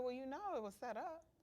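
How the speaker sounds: play-acted aloof, dismissive manner. Retelling the husband's reply after being confronted: imitating an aloof husband. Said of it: "he was just so aloof".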